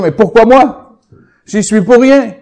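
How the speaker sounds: mock lament. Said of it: "tu t'es posé la question".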